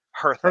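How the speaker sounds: "Hertha" said HUR-tha with th; "Hertha" with clear H and th; name pronunciation. Shown as a demonstration. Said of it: "Not Bertha, uh, but with an H".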